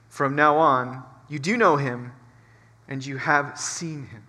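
measured, reverent Bible reading; scripture reading. Acted. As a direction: pastor reading scripture in a steady, solemn voice. Reads John 14 aloud.

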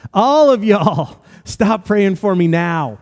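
loud, high, slow shout of a command; yelled out. Retold or imitated. Russ shouting at everyone praying to stop now. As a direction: stop the whole room with a drawn-out yell. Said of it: "And he yelled it out".

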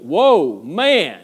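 loud amazed whoa; a loud, delighted exclamation; Adam's delight. Retold or imitated. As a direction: burst out in wonder. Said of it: "he went".

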